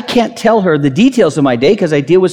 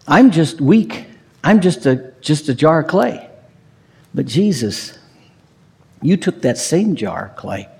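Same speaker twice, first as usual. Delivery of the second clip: prayerful. Acted. Prayer-like address to Jesus.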